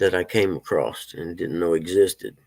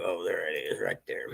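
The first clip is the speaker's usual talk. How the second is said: muttered whisper; 4 semitones lower, 10 dB quieter than usual. Real, not acted. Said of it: "whisper to himself".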